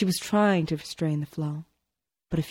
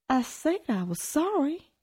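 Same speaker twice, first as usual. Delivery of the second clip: higher, softer voice fluttering and breaking; 10 semitones higher, 4 dB quieter than usual. A narrator's reading. Tony apologizes to his sister, voice breaking higher. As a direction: let it quiver up and crack. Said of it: "His voice fluttered higher, breaking".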